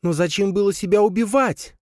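put-on high, thin spider girl; squeaky little spider asking. Spider Leya asks hero. (высокий голосок паучихи)

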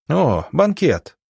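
high, slow delighted exclaim; excited exclaim. A narrator's reading. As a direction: draw out the joyful gasp. Journalists excited at the tea party. (восторженно)

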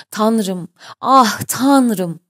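pained wail that swells on the second appeal; moaning cry. A narrator's reading. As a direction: groan it out loud, in pain. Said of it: "diye inleyerek bağırıyordu".

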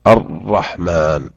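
الرحمن said slowly with the ر doubled but not rolled; careful model of الرحمن. Shown as a demonstration. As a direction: hold the ر in الرحمن without trilling. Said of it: "بالتشديد".

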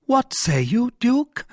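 the king startled by the offer; surprised king. Acted. King questions cardinal.

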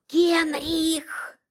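a sharp whispered hiss. Acted. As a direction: hiss his name so no one hears. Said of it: "прошипела я".

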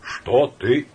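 loud, slow, stiffly formal; barely holding anger. Acted. Samoylenko turning on Laevsky, flushed with anger. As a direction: bite it back, counting to a hundred. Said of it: "сосчитав до ста, багровея".

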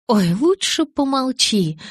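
high, slow, delighted coo; gleeful. Acted. Reckless inner voice hushes Bella, gleeful and high. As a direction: exult like the reckless part of her. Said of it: "возликовала менее благоразумная часть меня".

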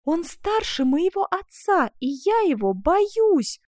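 high, loud, slow cry of dread; anguished revulsion. A narrator's reading. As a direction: cry out in dread, drawing words out. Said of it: "с непреодолимым отвращением". (с отвращением и страхом, громко)

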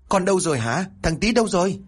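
high, shaking him for an answer; angry demand. A narrator's reading. Angry wife shakes her husband for the son, high. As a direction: demand it furiously. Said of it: "bực tức lao tới".

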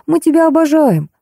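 put-on high-pitched baby-talk coaxing; cooing. A narrator's reading. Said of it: "засюсюкал Кеша". (сюсюкая, высоким голоском)

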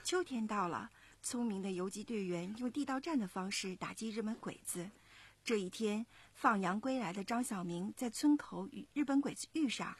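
put-on lively storytelling to young listeners; story narration. A narrator's reading. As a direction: narrate clearly and expressively, like a children's story. 妈妈朗读故事旁白. (讲故事的旁白)

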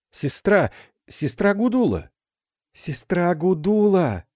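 calling out. A narrator's reading. Calling to the fallen recluse.

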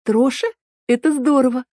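put-on high, bright girlish delight; light up at the new name. A narrator's reading. Эль delighted by the name Троша, high-pitched.

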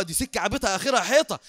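laughter in the voice; amused repeat. Retold or imitated. Teller relishing the sheikh's catchphrase, laughing lightly. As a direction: repeat the catchphrase through a chuckle.

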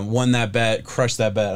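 voice cracking. Real, not acted. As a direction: voice cracks mid-phrase. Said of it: "My, my voice cracked a little bit there".

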